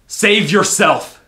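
slow, high, piercing scream; anguished scream. Acted. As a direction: scream it with all her might. Urging visitor to flee.

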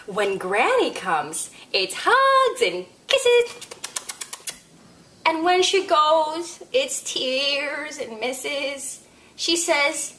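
put-on lively read-aloud to a child; story reading. A narrator's reading. Storyteller reading a picture book to kids, lively.

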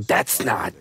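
drawn-out, exasperated protest; mock indignation. Anglophiles watching his accent, mock indignant. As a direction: imitate an outraged purist objecting.

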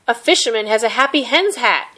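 calling out across the market; shouted from a bike cart. Acted. Zhang shouting across the market to My My, calling out. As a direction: raise the voice to carry far. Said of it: "he shouted".

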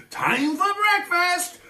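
high, slow hammed-up dragon cry; dragon's gleeful roar. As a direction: drag it out like a hungry dragon. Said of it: "and he said".

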